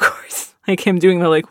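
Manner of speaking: usual speaking voice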